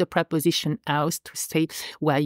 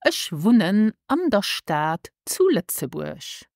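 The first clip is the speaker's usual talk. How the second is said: slow model phrase; slower than usual. Shown as a demonstration. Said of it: "this is".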